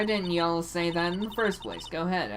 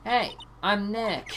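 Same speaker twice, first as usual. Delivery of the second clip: louder, slower; 4 semitones higher than usual. Shown as a demonstration. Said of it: "Maybe I'm not saying it loud enough".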